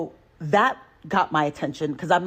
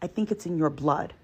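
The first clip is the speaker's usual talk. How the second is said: most polite way; 5 dB quieter than usual. Retold or imitated. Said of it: "I say it in the most polite way".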